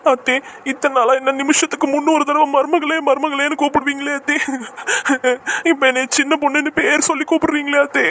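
hurt, weepy appeal to an elder; tearful complaint. Acted. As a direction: complain through tears. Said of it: "நீலி கண்ணீர் வடிச்சுக்கிட்டு போறா".

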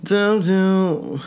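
lightly voiced bro persona, slow and swaggering; put-on Black American male accent. Vlogger greeting her fans in a mock persona accent. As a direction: ease into a laid-back dude accent. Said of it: "that shitty accent".

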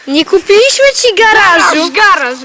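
shouting it out; loud. Real, not acted. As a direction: call out the answer. Shouting password with laughter.

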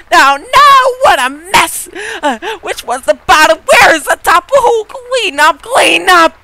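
put-on high, loud, frantic kid voice; squeaky upset child shouting; son impression. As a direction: play the panicking son yelling about the mess. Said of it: "Did you like my son impression?".

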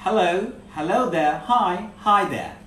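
slow, loud "hello, hello there, hi, hi there"; pronunciation drill. Shown as a demonstration. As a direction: draw out "hello" and "hi there" for learners to copy. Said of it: "আমার সাথে উচ্চারণগুলো করতে হবে".

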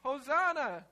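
high, loud hosanna cry; alarm clock screaming. Pretend. Alarm clock screaming hosanna at the sleeping volunteer, loud and high. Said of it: "The alarm clock is screaming".

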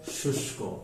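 শুষ্ক whispered softly; whispered repeat. Shown as a demonstration. Teacher whispering শুষ্ক after saying it. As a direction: breathe শুষ্ক out without voice. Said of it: "মূর্ধন্য স, তালব্য স হয়েছে".

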